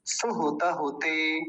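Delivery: सुहुत होते with brief u sounds, the final syllable held; careful "suhuta-hute", short u throughout; short u vowels. Shown as a demonstration. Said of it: "जल्दी जल्दी बोलती हैं".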